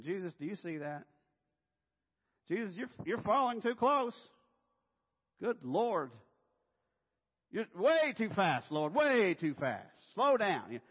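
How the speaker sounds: loud, high protests with stretched stressed words; alarmed backseat driver. Acted. Passenger beside God at the wheel, alarmed nagging. Fretful passenger ordering the Lord driving.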